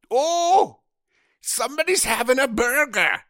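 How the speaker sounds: high, loud, bad American accent; mock American accent. Irish podcasters mocking an American email, loud mock American accent. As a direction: shout it like an Irish person imitating Americans. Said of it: "an Irish person doing an American accent".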